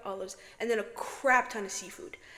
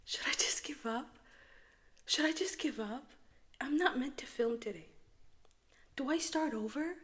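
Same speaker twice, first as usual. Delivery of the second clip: real dejection; 3 semitones higher, 7 dB quieter than usual. Real, not acted. Vlogger finding the whole recording was in echo, dejected. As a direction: wonder aloud, nearly giving up.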